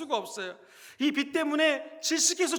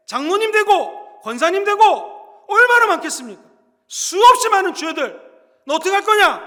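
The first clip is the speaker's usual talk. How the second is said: loud, high, accusing roll call of sins; God calling out sins; 6 semitones higher, 11 dB louder than usual. Pretend. God naming the congregation's sins, shouting and accusing. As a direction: hurl each sin at them like a judge. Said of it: "만약 제가 하나님이라면 여러분들 이름을 불러가면서".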